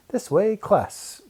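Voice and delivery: slow, high call to the class. Acted. Miss Frizzle calls the class to run under the log. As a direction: call the kids to follow. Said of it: "Miss Frizzle called".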